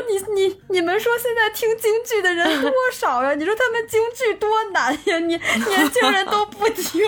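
high, laughing mock sob; retold tearful plea. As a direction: act out crying over Peking opera. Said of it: "我就一边哭". (半笑半哭地模仿自己哭诉)

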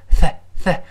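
isolated "th" hissed with the tongue between teeth. Shown as a demonstration. Teacher demonstrates the sound, tongue-out "th". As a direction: push air past the tongue tip for "th". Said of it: "T H要吐舌头".

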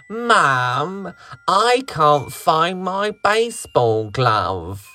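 put-on high child's voice shouting; little boy shouting. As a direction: call out like a frustrated boy. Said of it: "Each time he'd shout".

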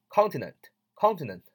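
CON-tinent, with the first syllable of "continent" stressed. Shown as a demonstration. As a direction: hit the start of "continent", let the rest fall away. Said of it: "重音在最前". (continent 重音落在第一个音节)

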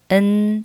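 a bare "n" for and; weakest form of and. Shown as a demonstration. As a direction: reduce and to just "n". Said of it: "或者是n都可以".

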